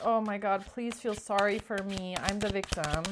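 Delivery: mock sob story. False person begging the Queen of Wands, mock sob story. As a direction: play the victim, half-mocking. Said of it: "This is some sort of a sob story".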